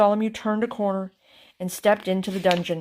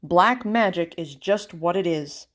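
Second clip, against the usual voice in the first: relieved sigh; 4 dB louder than usual. Acted. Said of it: "sighed the king with relief".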